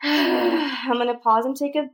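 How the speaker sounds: loud, high exasperated sigh into words; real fed-up frustration; very frustrated. Real, not acted. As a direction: announce a break in exasperation. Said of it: "I'm very frustrated again".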